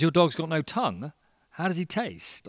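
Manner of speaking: high, loud barman disbelief; acted incredulity. Barman questioning a man about his tongueless dog, incredulous. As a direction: pitch it up in mock astonishment.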